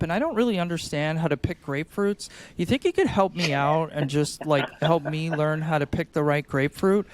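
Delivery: mock-confused shopper asking for grapefruit help; helpless asking. Shown as a demonstration. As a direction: ask sweetly for help like you're lost. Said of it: "It's more of a".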